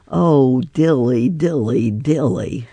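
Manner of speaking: mild weary sigh; a touch of a sigh, falling away. A narrator's reading. Simpkin the cat sighing to himself, mild sigh. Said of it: "sighed Simpkin".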